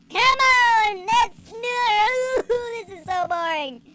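hammed-up bored wail; mock whining. Bored player wailing about the level, mock whining. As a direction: whine it out with exaggerated despair.

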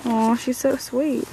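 put-on baby talk. Talking to the dog.

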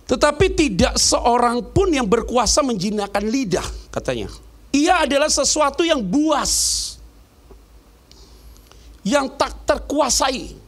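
slow, loud, grave proclamation; solemn scripture reading. Acted. Preacher reading the verse to the congregation, slow and grave. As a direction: pronounce each word of scripture slowly.

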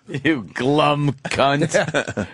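very slow, relishing each word; mimicking Mel's sneer. Host savours the insult again, slow lightly voiced mimicry. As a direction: drag it out like a catchphrase.

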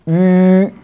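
"吁" stretched out slowly on a level note; long vowel. Shown as a demonstration. Teacher showing the vowel can lengthen, "吁" drawn out. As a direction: hold the sound of "吁" long. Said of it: "也可以拉长".

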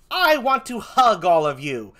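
slow, drawn-out performed declaration; mock-menacing offer. Hideous freak to the angry crowd, mock-menacing offer. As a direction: stretch it out to scare off a crowd.

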